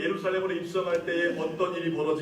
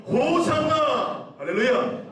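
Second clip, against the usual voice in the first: high, long-held rallying cry; soaring, stretched cry of praise; crying out together; 8 semitones higher, much slower than usual. Shown as a demonstration. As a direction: lead the congregation in a drawn-out shout. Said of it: "우리 한번 다 같이 외쳐볼까요".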